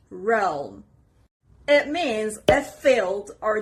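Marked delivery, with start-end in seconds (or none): 0.1-0.8 REALM with the weight at the front, falling away; a demonstrated "realm", front-stressed and falling; stress on first part. Shown as a demonstration. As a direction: lean on the start of "realm", then let it fall. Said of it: "The stress is on the first part".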